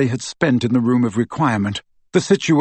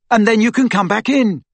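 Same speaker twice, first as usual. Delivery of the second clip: high, raised call after someone; urgent call, pitched up; shouted; 10 semitones higher, 4 dB louder than usual. A narrator's reading. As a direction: shout it after a person running off. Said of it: "he shouted after her".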